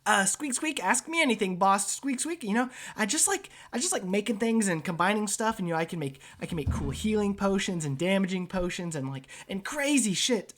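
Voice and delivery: high squeaky rat voice; eager rat man. Acted. Rat inventor offering his skills to the boss, high eager squeaks. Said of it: "He goes".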